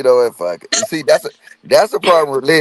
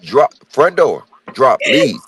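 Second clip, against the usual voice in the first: mock exasperated. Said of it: "I'm like, Huh?".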